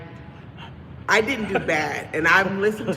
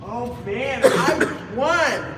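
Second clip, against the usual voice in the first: high squealing delight, drawn out; shrieking jackpot winner; 9 semitones higher, 5 dB louder, much slower than usual. Real, not acted. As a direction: squeal like you just won big. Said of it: "Let me know when you're done celebrating".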